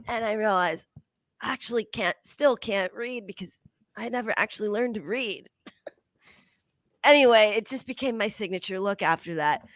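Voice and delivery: Whoopi Goldberg impression. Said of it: "It's like this".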